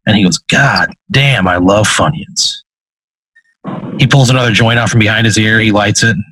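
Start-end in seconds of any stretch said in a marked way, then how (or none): 0.4-2.6 slow relish, dropping lower at the end; drawn-out, low-ending appreciation; savoring demon. Acted. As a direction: stretch it out with acted satisfaction. Demon savors a caught snack.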